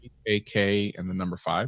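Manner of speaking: breaking up over a bad connection; choppy call audio cutting out; glitching audio. Real, not acted. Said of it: "You keep cutting out just as you're saying it".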